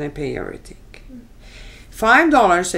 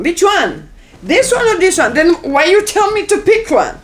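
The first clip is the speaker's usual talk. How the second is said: much higher and louder, demanding an answer; exasperated shouting; 11 semitones higher, 8 dB louder than usual. Retold or imitated. Buyer shouting back at the car dealer, exasperated. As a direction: throw the questions back, fed up.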